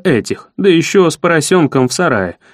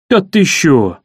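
mock surprise; slower than usual. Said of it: "Явно глумясь".

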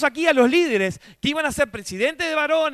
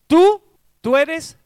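proclaiming; 5 semitones higher, 10 dB louder, much slower than usual. Acted. Preacher booms God's declaration.

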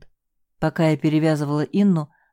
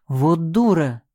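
exasperated outburst; much slower than usual. Acted. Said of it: "в сердцах сказал Тимур".

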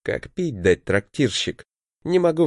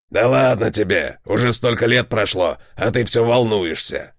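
smirking. A narrator's reading. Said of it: "ухмыльнулся Хавир".

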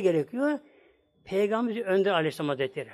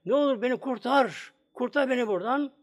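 retold cry for help; 4 semitones higher than usual. Wife calls again to her husband from hell, retold cry for help. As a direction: imitate begging to be rescued, only mildly raised. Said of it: "Gene bağırdım diyor".

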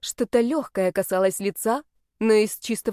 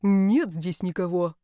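slow, muffled grumble; constricted, grudging mumble; strangled grumble; slower than usual. A narrator's reading. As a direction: grumble it slowly as if swallowing. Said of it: "сдавленно пробурчал он, сглатывая".

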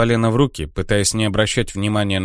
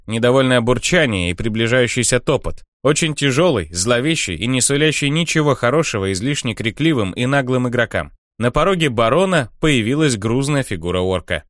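usual speaking voice

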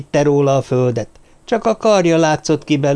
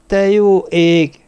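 slow, higher moan; groaned dismay; 6 semitones higher, 4 dB louder, much slower than usual. A narrator's reading. Someone reacting to Alex's tampered antenna, groaning. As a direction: groan it out, drawn and raised. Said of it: "nyögte valaki".

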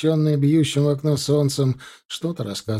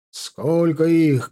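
shout; 3 semitones higher, 4 dB louder, much slower than usual. Acted. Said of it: "крикнул Кравцов".

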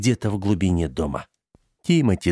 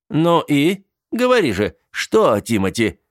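demanding; 7 semitones higher, 4 dB louder than usual. Acted. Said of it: "требовательно спросил дядя Джейсон".

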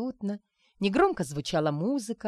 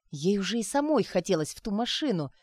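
usual speaking voice

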